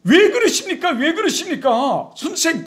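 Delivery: high, remonstrating outburst; rebuking. Acted. Peter scolds his teacher over his coming death, rebuking. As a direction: scold upward in indignant protest. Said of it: "막 꾸짖으면서".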